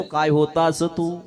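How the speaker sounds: slow, drawn-out marveling; slow, amazed father praising the son; slow wondering. Shown as a demonstration. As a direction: stretch each word out in admiration. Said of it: "आहे की नाही?".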